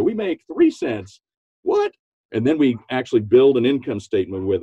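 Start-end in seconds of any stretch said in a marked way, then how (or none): 0.0-1.2 deadpan reveal. Retold or imitated. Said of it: "And you go". 1.6-1.9 high squeaky disbelieving what; mock shock. Employees shocked by tiny margin.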